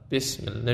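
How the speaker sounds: بسم الله repeated with a short "bis"; teacher's demo of بسم الله, Arabic short "i"; short i vowel. Shown as a demonstration. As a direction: model بسم الله with a brief "i", not "e".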